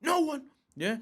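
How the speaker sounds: high, loud incredulous outburst; re-enacted angry shout; going mad. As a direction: fire it back, acting out the rage. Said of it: "I'm going mad now".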